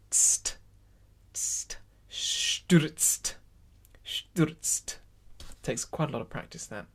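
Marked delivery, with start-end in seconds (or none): 0.1-1.8 "Tst" as voiceless consonants only; isolated consonant cluster. Shown as a demonstration. Teacher drills the word ending for choir, consonants alone in "Tst". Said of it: "put a T at the end of it". 2.1-5.0 "Stürzt" with every end consonant sounded; final consonant drill. Shown as a demonstration. Teacher repeats tricky word for practice, careful "Stürzt" with final t. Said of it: "put a T at the end of it".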